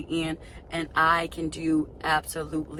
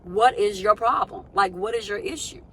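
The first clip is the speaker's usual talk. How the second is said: higher-pitched exasperated questioning; exasperated challenge; 7 semitones higher, 3 dB louder than usual. Acted. Confronting God over being passed over, exasperated challenge. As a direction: demand an explanation, voice climbing.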